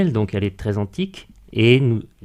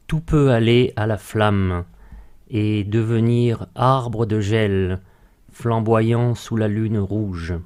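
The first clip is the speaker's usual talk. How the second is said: slow, measured verse with pauses between lines; poem recitation; slower than usual. Acted. Guest recites a remembered poem extract to radio host, measured recitation. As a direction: recite each line deliberately, letting it settle.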